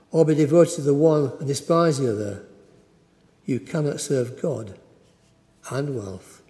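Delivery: measured reading of the Gospel, slowing and fading at the close; scripture reading. Acted. Preacher reading the Gospel to the congregation, solemn and measured. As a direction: read it solemnly to the congregation, letting the end drop away.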